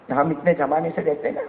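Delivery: ordinary talk, nothing marked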